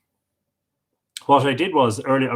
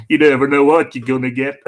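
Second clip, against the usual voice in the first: laughing; 4 dB louder than usual. Real, not acted. Laughs through the quote's end.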